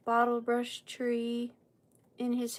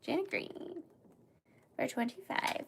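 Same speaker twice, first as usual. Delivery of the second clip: the name again, much quieter; softer, not yelling; 3 semitones higher, 7 dB quieter than usual. Real, not acted. Host repeats the bidder's name, quietly apologetic. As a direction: pull it back after the yell. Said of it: "I don't know why I'm yelling".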